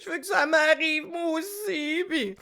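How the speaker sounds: high, soft swooning imitation of admirers; mock starry-eyed longing. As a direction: coo with exaggerated wishful envy. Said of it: "qui faites comme". (imitation rêveuse, petite voix haute)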